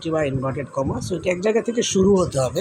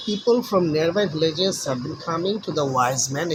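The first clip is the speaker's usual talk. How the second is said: slow story reading; much slower than usual. Shown as a demonstration. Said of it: "দেখি গল্পটি কী রয়েছে".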